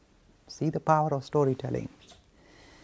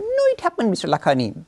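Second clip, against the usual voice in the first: mocking whiny voice; 7 semitones higher, 4 dB louder than usual. Same adults insisting.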